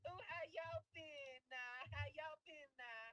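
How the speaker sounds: high, slow, exaggerated mock Black American accent; mock a politician pandering in a drawn-out Black accent; Kamala's put-on Black accent. Podcaster mocking election-season pandering, exaggerated put-on Black accent. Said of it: "Kamala gets a, a black accent".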